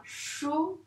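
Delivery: "Chocolat" sounded out for copying; announcing the next word to copy; word dictated. Shown as a demonstration. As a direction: give the word clearly for the pupils. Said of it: "on va recopier le mot chocolat".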